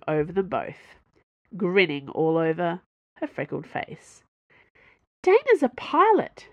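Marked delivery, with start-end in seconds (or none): 5.2-6.5 much higher, loud and bright. Acted. Young engineer proudly introduces Dana, bright and high. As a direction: chirp it out proudly. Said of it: "she said brightly".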